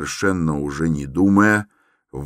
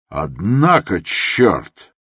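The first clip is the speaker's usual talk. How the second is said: shouting; 3 semitones higher, 4 dB louder, much slower than usual. Acted. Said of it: "закричал он вдруг".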